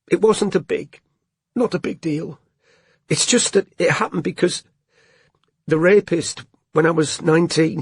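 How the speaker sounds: high, tearful, rising to a hysterical cry; a little hysterical. A narrator's reading. Robin to Strike, trying to regain control, a little hysterical. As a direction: let it tumble out, near hysterical. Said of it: "she said a little hysterically".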